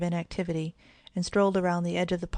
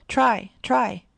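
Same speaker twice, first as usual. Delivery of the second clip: loud, raised calling out; urging shout; 5 semitones higher, 7 dB louder than usual. Acted. Brother yells encouragement to the swimmer, loud. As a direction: spur him on.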